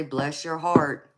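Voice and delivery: slow Southern drawl on bless your heart; Southern saying. Shown as a demonstration. Streamer showing chat a Southern saying, slow drawl. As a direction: drawl it out slowly, sugar-sweet. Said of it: "we always say".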